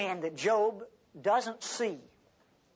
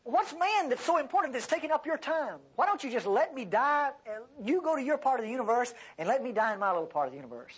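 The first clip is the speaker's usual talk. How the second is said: higher-pitched, pleading protest; complaining Job; 6 semitones higher than usual. Retold or imitated. Job begging God to leave him alone, complaining. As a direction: plead and argue, exasperated. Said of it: "Now, he's complaining".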